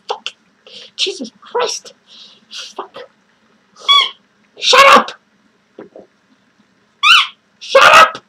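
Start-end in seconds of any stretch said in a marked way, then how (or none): 4.6-5.1 higher, louder angry yell; angry shout. Acted. Yelling at talking squeaky toys. 7.6-8.2 higher, louder frantic yell; shrill angry shout. Acted. Yelling at talking squeaky toys.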